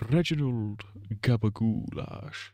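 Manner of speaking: slow, laughing character name. Acted. Repeating the new character's name, slow through laughter. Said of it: "His name is Reginald Gabagoulash".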